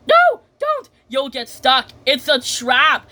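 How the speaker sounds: high acted cry, loud at first; urgent warning. Trapped ladies warn Mister Elephant, high urgent cry. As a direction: burst out high to stop someone.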